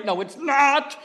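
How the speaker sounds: loud, high shouted reply; screaming back. Retold or imitated. Woman shouting back at the singer, loud and high. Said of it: "the oddest duet".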